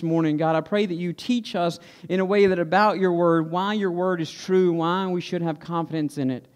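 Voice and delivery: earnest, measured prayer voice; public prayer. Real, not acted. Pastor leading the congregation in prayer before the sermon, earnest and subdued. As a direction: pray aloud, evenly, pausing between petitions.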